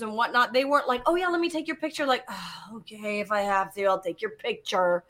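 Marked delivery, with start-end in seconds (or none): 1.1-2.1 fast, higher mock-eager offer; sarcastic chirpy offer. Mocking unhelpful producers. 2.3-5.0 mock reluctant mumble; grudging. Grudging producers imitated.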